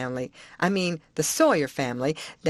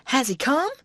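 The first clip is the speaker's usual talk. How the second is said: put-on higher, eager old-woman voice; Aunt Sally's voice; 7 semitones higher, 3 dB louder than usual. Aunt to the boy, eager old-woman voice. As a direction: coax the boy for all the news.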